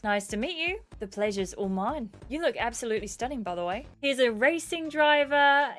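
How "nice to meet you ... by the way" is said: put-on South African accent. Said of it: "So I'm sorry about this in advance".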